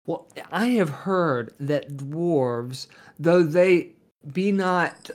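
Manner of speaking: slow, formal dwarf speech; measured, stately adventurer; slow in-character dwarf. Acted. Player speaks in character slowly.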